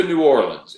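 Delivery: second "New Orleans" ending in a long "LEENZ"; foreigner's Orleans. Retold or imitated. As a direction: say "New Orleans" as "new or-LEENS", like an outsider. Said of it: "outed yourself as a foreigner".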